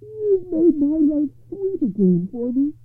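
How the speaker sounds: slow, high-pitched rapture; blissful, drawn-out gratitude; beaming joy. A narrator's reading. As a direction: savour each word in a high, delighted voice. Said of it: "his face beaming".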